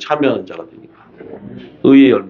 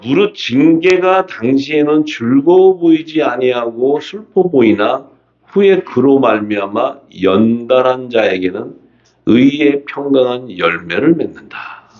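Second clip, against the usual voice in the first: slow, measured verse reading; scripture reading; slower than usual. Acted. Preacher reading scripture to the congregation, slow and measured. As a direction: read the verse out with drawn-out phrases.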